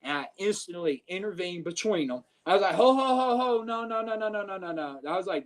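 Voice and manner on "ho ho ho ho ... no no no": calling out to stop. Retold or imitated. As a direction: start as a high shout to stop them, then settle it down. Breaking up a fight, calling out.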